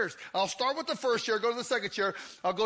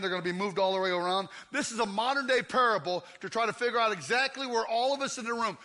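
usual speaking voice

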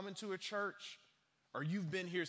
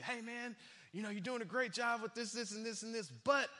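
higher-pitched, quick coach buttering a player up; upbeat coach; 7 semitones higher, faster than usual. Acted. Coach coming up to an athlete with praise, upbeat. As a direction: sweeten the criticism, pitched up and hanging on the "but". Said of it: "coming up to you".

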